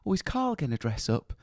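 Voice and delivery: lightly imitated northern English mother; northern mum. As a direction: play mum asking in a northern English accent. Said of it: "my mum is now really northern".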